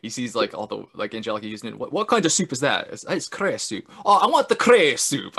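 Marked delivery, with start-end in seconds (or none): 1.8-5.4 a hint of thick-Scots dad; light Scottish accent. Dad at dinner asking about the soup, light Scottish accent. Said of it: "he's got this really thick Scottish accent".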